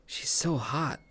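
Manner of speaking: breathless whisper to himself; whispered gushing. Retold or imitated. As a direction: whisper it like you can't believe how hot she is. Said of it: "I was like".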